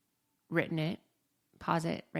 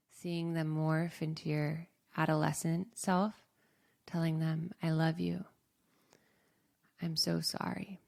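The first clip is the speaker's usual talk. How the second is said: guided meditation. Acted. Guiding listeners to forgive their younger selves, gently. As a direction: lead them tenderly toward forgiveness.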